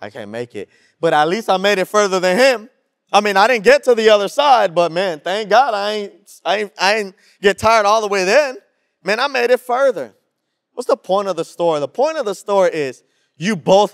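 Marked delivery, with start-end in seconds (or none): 0.0-0.7 worn out. Retold or imitated. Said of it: "And he's like". 1.0-10.1 loud, proud brag after giving up; boastful loser. Retold or imitated. Tired swimmer brags about going further, loud and proud. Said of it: "And he's like".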